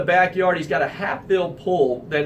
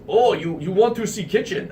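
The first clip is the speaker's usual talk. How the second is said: lightly put-on Russian accent; a hint of a Russian homeowner at the door. Shirtless owner greeting the realtor in a light Russian accent. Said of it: "thick Russian accent".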